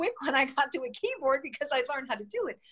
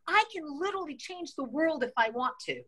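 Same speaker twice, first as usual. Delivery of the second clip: much higher, bright burst of retold excitement; empowered thrill; 5 semitones higher than usual. Telling the interviewer about her big win, high and elated. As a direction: relive the rush of realising you can change things. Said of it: "the most empowering feeling to me".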